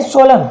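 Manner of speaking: सोलम ending on m, the n left silent; सोलम with falling tune, closing on m; silent-n pronunciation. Shown as a demonstration. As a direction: model सोलम as a word on its own, no final n. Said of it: "क्या बोलते हैं भाई".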